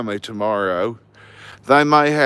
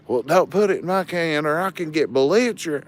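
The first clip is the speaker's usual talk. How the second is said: higher, quick retold threat; belligerent neighbor; 6 semitones higher, faster than usual. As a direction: imitate a cranky neighbor's quick warning. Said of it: "hollering he's gonna get belligerent".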